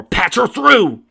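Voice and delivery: high, loud and drawn out; eager. Acted. Donovan eagerly ordering his computer to put the call through. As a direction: burst out, dying to hear her.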